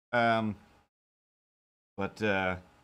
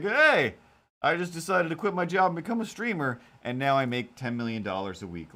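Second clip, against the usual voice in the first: bragging coworker; 5 semitones higher than usual. Retold or imitated. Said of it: "people that are like".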